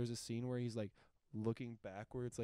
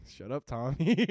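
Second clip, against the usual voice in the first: loud, drawn-out gangster outburst, rising high; mock angry yell; 4 semitones higher, 12 dB louder than usual. Retold gangster yelling in confessional.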